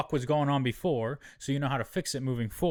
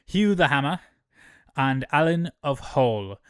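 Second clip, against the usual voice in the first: mocking shout; 2 semitones higher, 6 dB louder than usual. Daemon mocking the seedlings' new titles, loud and scornful. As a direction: bellow the names like a taunt. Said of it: "Daemon's like".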